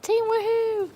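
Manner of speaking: high, loud team cheer; excited cheer. Real, not acted. Streamer rallies the chat crew, high excited cheer. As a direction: whoop it out for the whole crew.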